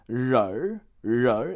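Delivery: ro with a curled r ending; northern ro. Shown as a demonstration. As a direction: say ren as ro with erhua. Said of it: "instead of ren, it becomes ro".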